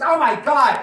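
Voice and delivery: high, loud retold exclamation; re-enacted gushing outburst; excited discovery. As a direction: act out thrilled disbelief. Acting out own delighted reaction at party.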